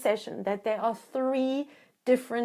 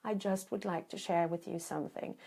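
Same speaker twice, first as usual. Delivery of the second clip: calm reassurance. Shown as a demonstration. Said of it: "I say it in exactly those words".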